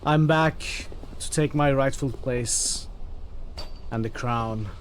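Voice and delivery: mock royal proclamation. Player roleplays returning true king.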